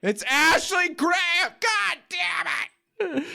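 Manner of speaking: high slow shouted outburst; muffled screaming. Retold or imitated. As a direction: yell it in mock frustration. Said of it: "muffled screaming the answers".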